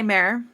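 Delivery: "mirror" said like "mare"; own odd pronunciation. Shown as a demonstration. Admitting a personal quirk, "mirror" said as "mare". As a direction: say "mirror" with an "eh" vowel, second syllable smeared. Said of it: "I say mirror".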